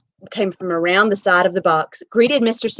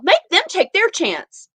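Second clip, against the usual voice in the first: desperate plea; 12 semitones higher, 4 dB louder, slower than usual. Acted.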